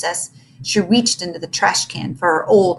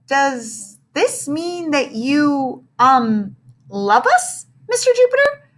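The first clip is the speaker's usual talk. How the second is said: put-on shy child voice; 6 semitones higher, slower than usual. Shy child asks teacher.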